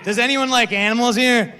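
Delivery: shouted, high and energetic; loud retry. Shown as a demonstration. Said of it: "we gotta do again".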